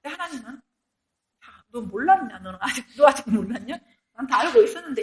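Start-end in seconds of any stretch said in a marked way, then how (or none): 1.4-5.0 teasing with a laugh. Retold or imitated. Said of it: "이러는 거죠, 하나님".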